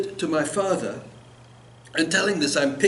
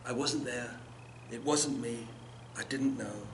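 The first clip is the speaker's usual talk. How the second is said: softer, muttered excuses to oneself; mumbled alibi; 2 semitones lower, 10 dB quieter than usual. A narrator's reading. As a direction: mumble it like a guilty child. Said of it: "Mumbling the alibi we all use".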